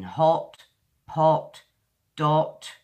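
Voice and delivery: "hot, pot, dot" with a short rounded British o. Shown as a demonstration. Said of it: "It's like the oh, oh sound".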